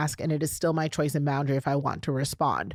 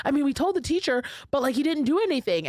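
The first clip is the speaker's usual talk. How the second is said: daughter's complaint; 9 semitones higher than usual. Retold or imitated.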